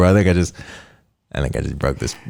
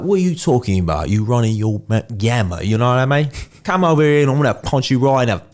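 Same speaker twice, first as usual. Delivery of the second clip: put-on Cockney accent. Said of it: "Jason Statham".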